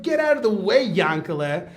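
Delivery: high, loud, eager brush-off; impatient shove-aside. Retold or imitated. Student pushing past to reach the books, loud impatience. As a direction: call out loudly to clear a path.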